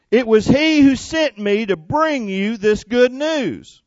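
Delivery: the offended angel hands down the punishment; stern angry angel. Acted. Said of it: "This angel was not happy".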